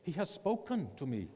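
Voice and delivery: lightly imitated German voice; German accent. Missionary insisting to his organization, imitated German accent. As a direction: repeat it in a mock German accent. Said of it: "in his German voice".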